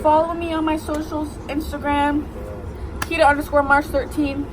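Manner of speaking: loud over the train; shouting. Real, not acted. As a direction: yell the sign-off.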